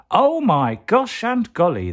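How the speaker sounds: high, loud, slow startled exclaim; startled cry. A narrator's reading. Startled elephants crying out after the scare. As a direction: gasp it out in shock.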